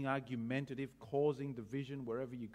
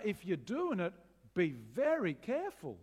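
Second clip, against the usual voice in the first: earnest warning; 3 semitones higher, 4 dB louder than usual. Retold or imitated. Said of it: "This is a".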